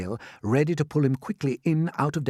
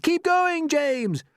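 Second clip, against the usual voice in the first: cheering; 4 dB louder, much slower than usual. Acted. Crew cheering James.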